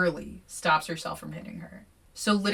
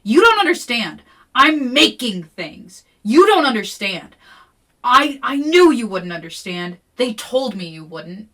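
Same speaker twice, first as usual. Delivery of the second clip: much louder and higher, a desperate yell; furious yelling; 4 semitones higher, 11 dB louder than usual. Acted. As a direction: scream that she's not understood. Deidre screams back, upset.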